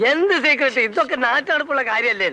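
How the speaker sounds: indiscreetly loud retort. Acted. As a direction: blurt it out with no care for secrecy. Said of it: "ഇയാൾ എന്തിനാ ഒച്ച എടുക്കുന്നേ?".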